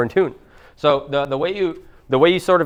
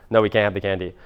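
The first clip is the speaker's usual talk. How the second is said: low, unbothered refusal; centered, cool parent; 5 semitones lower than usual. Acted. Grounded parent to kid begging for candy, calm and cool. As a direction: calmly hold the line as a parent. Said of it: "centered and cool or whatever".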